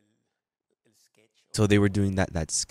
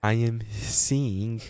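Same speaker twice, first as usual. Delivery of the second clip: put-on very slow, halting Spanish-accented English; mock a Spanish learner reciting word by word; drawn-out beginner's English with Spanish accent; imitated Spanish accent; much slower than usual. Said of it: "Like this with the accent".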